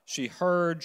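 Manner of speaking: heard given the weight; stress on heard. Shown as a demonstration. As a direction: punch the word heard. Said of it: "the emphasis on heard".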